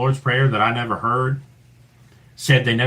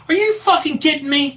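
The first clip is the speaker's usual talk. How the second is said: much higher, stunned question; shocked disbelief; 14 semitones higher than usual. Retold or imitated. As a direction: blurt it out stunned. Learning the date, shocked.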